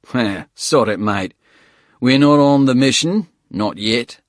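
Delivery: rusty, gravelly Aussie voice; rough Australian bloke, loud and casual; gruff Australian accent. Acted. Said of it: "a throated, rusty voice".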